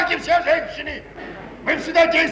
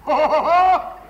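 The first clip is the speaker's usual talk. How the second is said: hearty chuckle; 5 dB louder, slower than usual. Acted. Husband laughs at the news.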